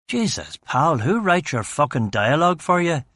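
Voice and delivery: high, scornful mockery; sarcastic jibe. Battered detective mocking his captor's dialogue, sarcastic. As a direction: sneer at the cliché.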